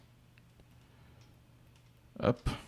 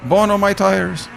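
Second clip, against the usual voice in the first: distressed wail; 8 semitones higher, much slower than usual. Real, not acted. Dismay over car tires.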